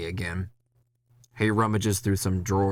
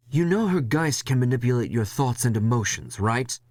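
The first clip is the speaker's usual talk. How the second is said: warning boss; 4 semitones higher than usual. Acted.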